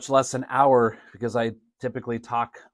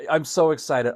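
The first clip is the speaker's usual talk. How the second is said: unexcited; 3 semitones higher than usual. Shown as a demonstration. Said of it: "you don't really sound like you're that excited".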